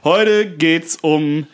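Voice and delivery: very slow title announcement; slow drawn-out. Acted. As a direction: stretch each word out.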